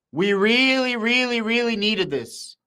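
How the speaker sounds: rising pitch, leaning hard on each really; can't hide the excitement, stretch every really; excited. Real, not acted. Streamer tells chat how badly they needed this, excited. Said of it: "sorry if I'm getting a little bit excited".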